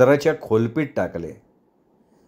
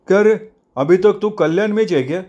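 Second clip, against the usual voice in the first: higher-pitched, curious questioning; inquisitive sidekick; 6 semitones higher than usual. Acted. Sidekick asks the boss where he lives now, inquisitive. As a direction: ask in a raised sidekick voice. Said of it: "झिपऱ्यानं चौकशी केली".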